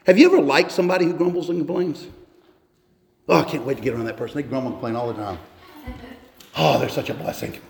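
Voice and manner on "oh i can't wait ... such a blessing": low, quick, dry sarcasm; sarcastic praise. Acted. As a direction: toss it off as mock eagerness.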